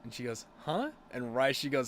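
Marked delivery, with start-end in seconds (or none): 0.6-0.9 high-pitched mock startled "huh"; startled reaction. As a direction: imitate her jumping in surprise, pitch shooting up. Girlfriend startled by the button press.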